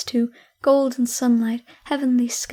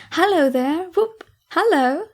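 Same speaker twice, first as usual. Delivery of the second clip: joyful whoops; 5 semitones higher than usual. A narrator's reading. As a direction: whoop with giddy delight. Scrooge shouting for joy.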